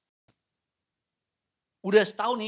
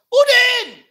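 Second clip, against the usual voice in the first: high, loud scolding shout; angry yell; 13 semitones higher, 11 dB louder, slower than usual. Acted. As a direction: blast the child for ruining it. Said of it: "Dan kita teriak".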